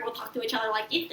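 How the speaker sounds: playful put-on little voice; silly little whisper. Shown as a demonstration. Showing how best friend and her mom talk, silly little whisper. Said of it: "a, a silly little whisper".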